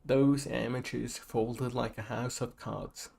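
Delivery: slow, drawn-out attempt at a Texan accent. Shown as a demonstration. Gamer reading a dialogue line aloud, shaky Texan accent. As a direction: amateurish Texas drawl, taking its time. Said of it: "say it in a Texan accent".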